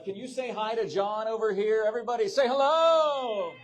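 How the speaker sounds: loud, high call to the crowd; crowd hype shout. Real, not acted. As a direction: pump up the audience with a shout. Hyping the crowd at live event.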